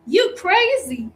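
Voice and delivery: slow, high Black American delivery; imitating Madea. Teacher showing how the character says it, slow and high. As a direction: drag it out like the movie aunt. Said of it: "is Mehdi gonna say something like".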